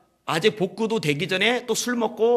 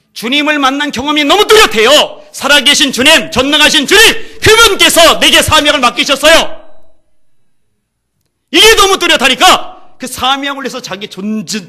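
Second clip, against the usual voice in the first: high, loud preaching climax; full-force preaching; 9 semitones higher, 14 dB louder than usual. Acted. Preacher proclaiming to the congregation, full force. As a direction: proclaim it to the back row.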